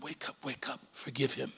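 very soft, low and calm; God's gentle voice. Acted. God telling the wife to forgive, softly. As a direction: murmur it gently, like a quiet inner voice.

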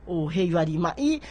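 normal talking voice

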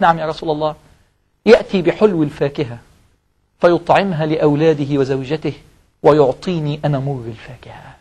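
low, soft, measured complaint; lightly voiced aggrieved mother, pausing between grievances; mildly hurt mother.

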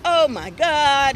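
an embarrassed nephew; dragged-out cringing oh my God; mock embarrassed groan. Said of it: "like he was embarrassed".

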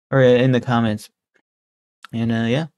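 talking while spitting; spitting between words. Real, not acted. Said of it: "Sorry I'm spitting so much on stream".

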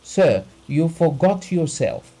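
high, loud outraged cry; shrieked. A narrator's reading. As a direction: shriek the rebuke. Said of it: "shrieked Abogin".

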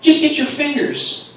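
high-pitched irate demand; slow it down, loud and high, fed up; exasperated outburst. Acted. Man telling his buddy off over chips, exasperated yell.

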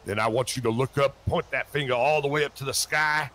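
quick, firm revival cadence; preacher's instruction. Pretend. Reverend tells convert to point skyward, firm preaching. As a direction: direct the convert like an evangelist. First order to point upward.

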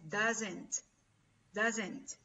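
DOESN'T said carefully with a falling end; pronunciation demo. Shown as a demonstration. Teacher telling students the pronunciation of doesn't, careful demo. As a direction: model the word "doesn't" for learners. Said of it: "La pronunciación es".

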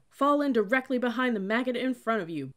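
loud, high drill-cadet bellow; bellowed order. A narrator's reading. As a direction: bellow it down the line. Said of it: "bellowed another cadet further ahead".

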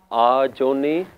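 "Ajoni" with a drawn-out "aa" at the start; wrong long first vowel. Shown as a demonstration. Teacher showing a common slip to learners, mispronounced with long "aa" in "Ajoni". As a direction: open "Ajoni" on a long "aah". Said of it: "like there's supposed to be a kanna".

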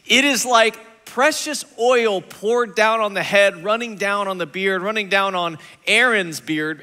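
slow, measured reading of the psalm; scripture reading. Acted. Pastor reading the psalm to the congregation, measured and solemn. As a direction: read the verse out slowly and deliberately.

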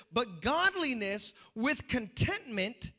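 slow, solemn verse; preacher reading First Timothy slowly; scripture reading. Acted. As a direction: read it slowly and gravely. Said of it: "it says".

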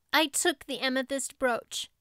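reciting it like a learned lesson; a girl repeating her lines by rote; rote recital. Acted. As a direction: say it as a memorized lesson. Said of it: "as if repeating a lesson she had learned".

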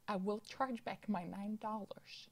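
whisper. Acted. Mutters a threat under his breath.

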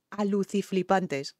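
slow, savouring each syllable of aluciflipantes; savoured slowly. Shown as a demonstration. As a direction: stretch out aluciflipantes, slowly relishing the made-up word. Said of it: "con la palabra aluciflipante".

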